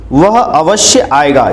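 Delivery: वह अवश्य आएगा said slowly, stressing वह; slow model sentence. Shown as a demonstration. Teacher to students, correct sentence slowly. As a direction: deliver the correct version deliberately. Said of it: "ये इसका शुद्ध रूप होगा".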